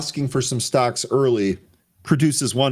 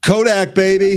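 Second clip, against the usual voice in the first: Trump voice; 10 semitones higher, 7 dB louder than usual. Acted. Playful Trump-style exclamation.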